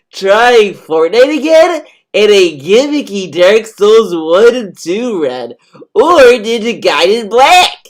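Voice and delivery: slow, high, sneering reading voice; mocking read-aloud. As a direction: read it like a pompous announcement. Reads the streamer's post mockingly.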